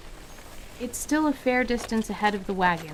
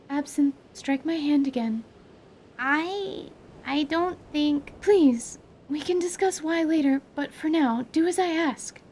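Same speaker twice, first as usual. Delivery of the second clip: urgent plea; 7 semitones higher than usual. Acted. Anise urgently pleading with pupil.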